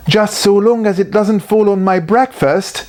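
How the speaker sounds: talking with mouth full. Acted. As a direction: speak through a mouthful. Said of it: "with his mouth full".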